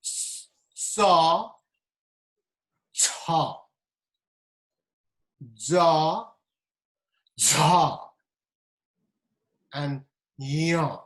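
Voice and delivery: sa, cha, ja, ya with tongue on the palate; each syllable sounded apart; palatal consonants repeated. Shown as a demonstration. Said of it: "Let me repeat this".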